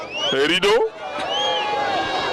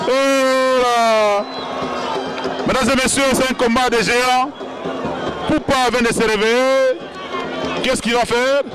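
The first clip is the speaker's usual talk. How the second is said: excited commentator; 4 semitones higher than usual. Acted. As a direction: build the crowd's excitement. Wrestler gets up, crowd hype.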